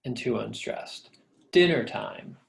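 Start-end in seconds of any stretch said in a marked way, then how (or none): 1.5-2.4 "Dinner time" with the weight on "Din"; stressed at the beginning. Shown as a demonstration. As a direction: hit the start of "Dinner time", then ease off. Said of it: "stressed at the beginning and too".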